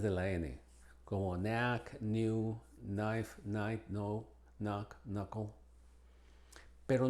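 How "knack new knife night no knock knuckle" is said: "knack, knife, knock, knuckle" starting on N; "knack, knife, knock, knuckle" with only N at the start; silent K. Shown as a demonstration. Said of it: "es muda generalmente".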